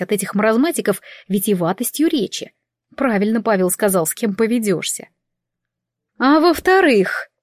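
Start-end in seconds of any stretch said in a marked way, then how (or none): 6.2-7.3 higher, slow, curious echo; curious prompt. A narrator's reading. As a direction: prompt her to go on, intrigued. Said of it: "с любопытством взглянула на меня эльфийка". (с любопытством, выше и медленно)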